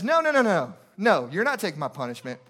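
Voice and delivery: acted-out insistent refusal; protesting convict. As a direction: refuse the offer emphatically. Convict refuses substitute's offer.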